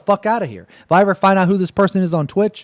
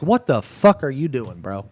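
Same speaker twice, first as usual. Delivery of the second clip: mock rant at God; 5 semitones higher than usual. Streamer imagining scolding God, outraged. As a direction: chew out God in disbelief. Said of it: "I'm gonna be like".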